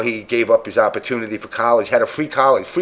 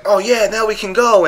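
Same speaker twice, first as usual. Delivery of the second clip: higher, put-on voice of eager teammates; mock teammates; 10 semitones higher than usual. Teammates finally joining the rush, in a mocking high voice. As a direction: mimic the teammates suddenly keen to join. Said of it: "then they were like".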